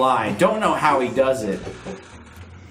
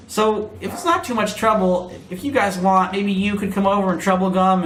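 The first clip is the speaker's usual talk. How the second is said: squeaky gorilla voice; 5 semitones higher than usual. Acted. Katie Kong voiced on phone.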